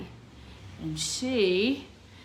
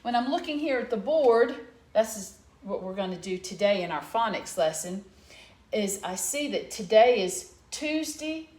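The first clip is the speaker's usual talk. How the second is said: excited; 2 semitones higher, 6 dB louder than usual. Real, not acted. Announcing a movement song.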